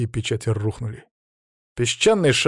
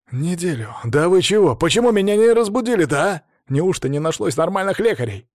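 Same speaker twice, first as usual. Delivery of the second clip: higher, louder disbelieving protest; indignant outburst; 6 semitones higher, 4 dB louder than usual. A narrator's reading. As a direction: demand answers from friends.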